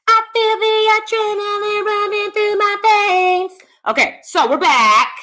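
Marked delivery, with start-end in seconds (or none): 0.1-3.6 high, slow, pumped-up boast; adrenaline rush. Real, not acted. Streamer hyping her chat with a high, slow, pumped-up boast. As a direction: savor the thrill in a high voice.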